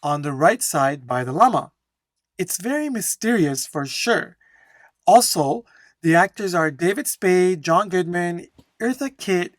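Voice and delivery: animated read-aloud with lifted intonation; flowing model answer. Shown as a demonstration. Teacher finishing the one-minute answer to a friend, flowing and intonated. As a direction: keep it flowing, with lively stress on key words. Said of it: "focus on my flow and intonation".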